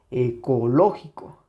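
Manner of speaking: ecológico leaning on LO; stress on tonic syllable. Shown as a demonstration. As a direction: bring out LO in ecológico. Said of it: "ecológico lleva acento aquí". (ecológico con acento fuerte en LÓ)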